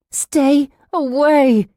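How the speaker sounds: slow, high, loud warning; fierce warning. A narrator's reading. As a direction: ward him off, stretching both words. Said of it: "Susan warned him".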